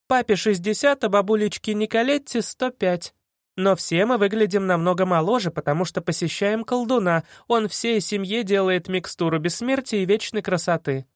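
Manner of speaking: put-on high perky girl. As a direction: spin the fib brightly. Girl spinning tall tale.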